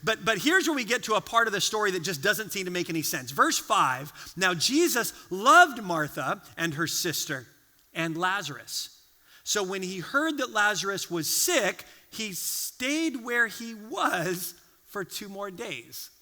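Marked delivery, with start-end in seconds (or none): 4.4-16.1 slow, measured Bible reading; scripture reading. Acted. Pastor reading John eleven to the congregation, slow. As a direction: read it slowly with weight.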